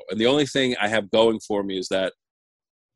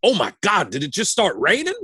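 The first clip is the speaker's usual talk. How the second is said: Michael Hayes; 6 semitones higher than usual. Retold or imitated. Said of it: "he looks at me and he just goes".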